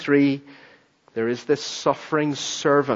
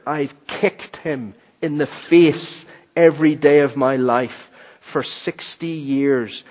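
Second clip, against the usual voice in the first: tearful. Retold or imitated. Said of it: "eyes welled up with tears".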